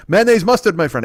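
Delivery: high, imitated shopkeeper's query; old deli man. Deli owner listing condiments to a customer, high and brisk.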